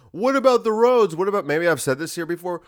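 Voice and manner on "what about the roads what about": high, loud nagging what about the roads; mocking whiny critic. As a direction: needle him like a pestering heckler. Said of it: "And then people go".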